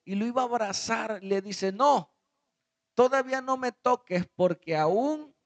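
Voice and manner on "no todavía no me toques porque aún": loud, high-pitched command; firm forbidding. Acted. Jesus stops Mary from embracing him, firmly and loudly. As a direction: stop them with a loud, raised no.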